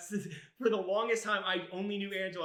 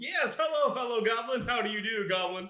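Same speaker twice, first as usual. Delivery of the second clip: mock goblin voice; 5 semitones higher, 7 dB louder than usual. Mocking goblin greeting.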